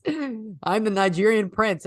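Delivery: lightly hammed Russian accent, stretched out slowly. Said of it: "like, a Russian accent".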